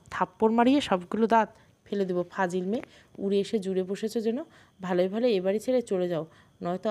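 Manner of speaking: hammed-up angry scolding; angry threat. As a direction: snap the threat out, trembling with rage. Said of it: "রাগে কাঁপতে লাগলাম".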